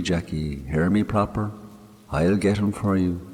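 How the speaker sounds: a grieving Irish countryman talking to his dead friend; man murmuring to a grave; Mick's voice. Acted. Mick speaking at the graveside.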